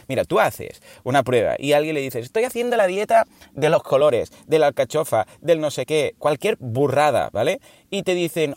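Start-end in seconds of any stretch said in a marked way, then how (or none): 2.2-6.1 higher, cheery boastful announcement; mock proud dieter. Someone announcing a fad diet to friends, bright and proud.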